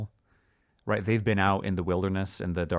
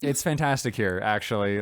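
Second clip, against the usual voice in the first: laid-back dark fairy. Retold or imitated. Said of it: "and they're like".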